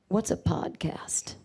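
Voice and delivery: slow, hushed, whispery voice; a singer. Retold or imitated. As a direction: draw it out softly, barely voiced. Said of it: "and he goes".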